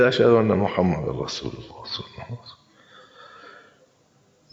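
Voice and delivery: mocking, hammed-up chant of the call; mock call to prayer. Bahmanyar mocked as a muezzin, hammed-up parody chant. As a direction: parody a cold muezzin lazily wailing. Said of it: "مسخره کردی".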